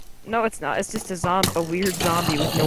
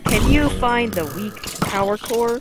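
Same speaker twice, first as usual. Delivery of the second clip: Dora voice; 3 semitones higher, slower than usual. Retold or imitated. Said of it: "Sounds like Dora".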